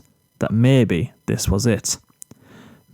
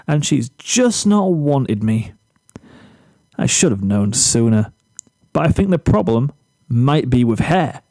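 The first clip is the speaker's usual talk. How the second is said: a hint of a smug boy bragging about his hair; boastful Zephyr. Zephyr to Flash over lunch, lightly cocky and self-pleased. Zephyr blames Rainbow Dash.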